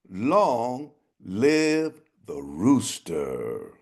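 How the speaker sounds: high, slow ringing crow; triumphant crow. Acted. Rooster crowing victory over the dead king, high and slow. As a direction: proclaim it from the palace roof.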